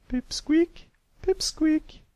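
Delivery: high, loud call of a teacher. A narrator's reading. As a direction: snap a daydreaming pupil back to attention. Teacher calling out to daydreamer.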